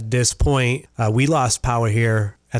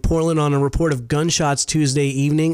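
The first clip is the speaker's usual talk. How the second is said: higher-pitched radio news delivery; news read; 4 semitones higher than usual. Real, not acted. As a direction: read out a local crime report. Reads the news.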